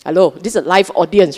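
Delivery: "live audience" pushed out fast and emphatic; stress on live audience. Real, not acted. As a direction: lean on "live audience" to wake them up. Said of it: "I stress on the word live audience".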